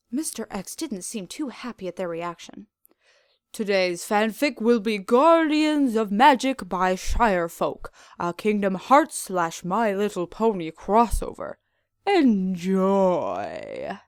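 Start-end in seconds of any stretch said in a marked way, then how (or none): 3.5-14.0 slow, lightly menacing host voice; gloating villain. Acted. Captor announcing the fanfic, slow mock-menacing. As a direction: present it like a sinister gift.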